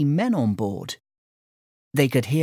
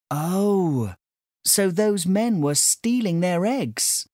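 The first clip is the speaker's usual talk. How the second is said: exclaiming; 6 semitones higher, slower than usual. A narrator's reading. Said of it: "exclaimed Sandy".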